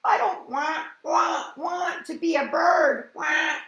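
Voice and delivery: high, loud crying wail; loud whiny cry. Acted. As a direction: wail like a distressed child. Character wailing in distress.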